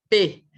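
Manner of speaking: "P" popped loud from closed lips; phonics demo. Shown as a demonstration. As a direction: hit the "P" burst. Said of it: "tem que fechar os lábios". ("P" forte, lábios fechados)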